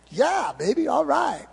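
swooping, hammed-up tune on each word; playful swooning reply. Driver answering his English GPS, playful hammed-up croon.

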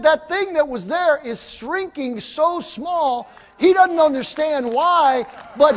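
high, slow, loud marvelling; amazed testimony. Retold or imitated. Young man tells pastor the thing is shrinking, amazed testimony.

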